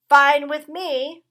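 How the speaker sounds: high, loud, slow squeaky retort; rat voice. A narrator's reading. Rat snapping back at the dog, loud and high. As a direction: toss it back like a defiant little rat.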